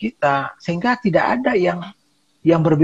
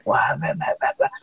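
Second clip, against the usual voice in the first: mock grumbling; 4 dB quieter than usual. Staff complaining behind the boss's back, mock grumbling. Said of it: "di belakang kita ngomel dia".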